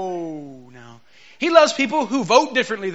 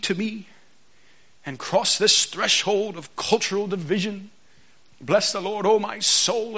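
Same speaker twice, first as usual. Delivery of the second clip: KJV reading style. Shown as a demonstration. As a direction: read it like lofty old scripture, pausing on every phrase. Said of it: "I read it like this".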